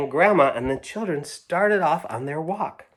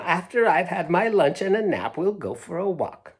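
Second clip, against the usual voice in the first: Grandma; 6 semitones higher than usual. Acted. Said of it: "said Grandma".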